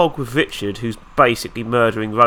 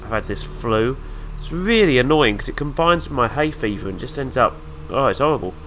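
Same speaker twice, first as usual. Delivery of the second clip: blocked nose from flu; nasal, stuffed-up voice. Real, not acted. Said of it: "excuse my nasally voice".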